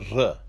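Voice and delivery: "R" as "ruh"; Resh sound. Shown as a demonstration. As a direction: sound out "R" with a short schwa. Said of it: "The Resh is pronounced as".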